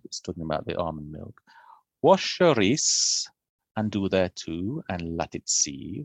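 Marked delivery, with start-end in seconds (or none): 2.0-6.0 put-on "Wash your rice" read slowly in a hushed Middle English accent; mock Middle English recipe reading of "Wash your rice". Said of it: "In my best Middle English, accent".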